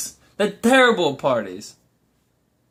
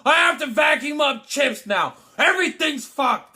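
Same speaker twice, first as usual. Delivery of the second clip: high hammed-up wailing shout; mock sobbing outburst; melodramatic meltdown; 11 semitones higher, slower than usual. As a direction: fake a tantrum over spilled chips. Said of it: "they'll be like".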